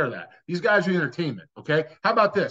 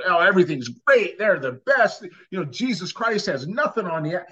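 mocking homer fan; 3 semitones higher than usual. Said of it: "just a humongous homer".

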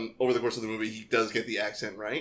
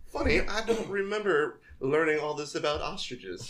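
slow-talking Danny Glover; 4 semitones higher than usual. Retold or imitated. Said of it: "uh, slow talking".

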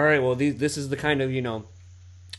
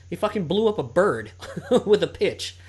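higher, laughing through the words; laughing retelling; 5 semitones higher, 3 dB louder than usual. Retold or imitated. Arguing with his friend, laughing through it. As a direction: chuckle while arguing the point.

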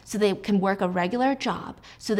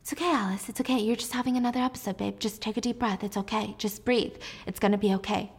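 soothing husband; 4 dB quieter, faster than usual. Retold or imitated. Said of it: "And Jack is like".

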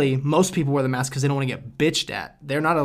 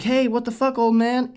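angry shout; 8 semitones higher than usual. Retold or imitated. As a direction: yell at the driver. Retold road rage yell.

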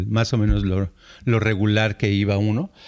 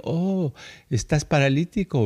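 pitying "oh", imitated; mock pity; 2 semitones higher than usual. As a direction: commiserate as if over a misfortune. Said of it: "O sea, como diciendo".

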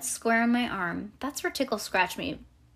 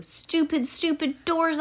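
higher-pitched exasperation, no added volume; mild storybook holler; 8 semitones higher, slower than usual. A narrator's reading. Girl finding every bathroom locked, exasperated mild holler. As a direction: grumble at the doors in a raised pitch. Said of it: "I hollered".

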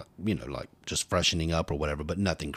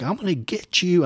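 higher, louder playful threat; mock threat; 10 semitones higher, 5 dB louder than usual. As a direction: tease back with a threat. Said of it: "He's like".

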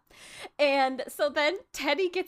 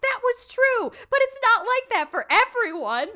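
high, loud put-on voice for a matter-of-fact reply; hammed-up high Draco, half laughing; voiced Draco retort; 12 semitones higher, 7 dB louder than usual. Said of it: "He's like".

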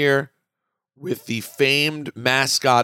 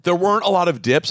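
choking on popcorn; 5 semitones higher, faster than usual. Real, not acted. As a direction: talk through a cough. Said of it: "I'm choking on popcorn".

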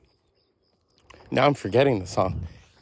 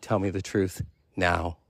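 stern teacher; 5 semitones lower, 4 dB quieter than usual. Retold or imitated. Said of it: "I stared at him".

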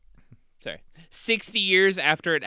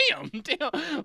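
a much higher bad Aussie accent, laughing; 13 semitones higher than usual. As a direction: chuckle through an Aussie drawl. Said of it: "there will be bad Australian accents".

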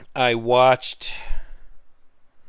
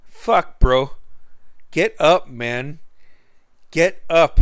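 louder, higher imitation of an annoyed friend; mock wake-up yell; 3 semitones higher, 5 dB louder, slower than usual. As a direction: imitate him barking you awake. Friend waking him up angrily.

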